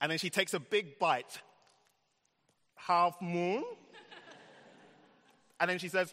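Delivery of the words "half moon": slight, light put-on French accent. Telling a story, quoting a woman as she takes a bite; a bit of a French accent. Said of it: "She's got a bit of a French accent".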